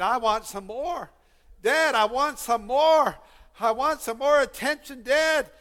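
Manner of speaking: put-on child crying out. Preacher imitates little one wanting Dad's attention, mildly crying out. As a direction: lightly voice a child begging Dad. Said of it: "He's crying out, saying".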